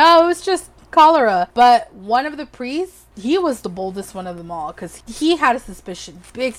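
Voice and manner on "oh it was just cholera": high, louder, breezy fake innocence; airy mock excuse. Noblewoman dismissing priests with a breezy, high fake innocence. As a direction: brush it off sweetly. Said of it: "that's what she would say".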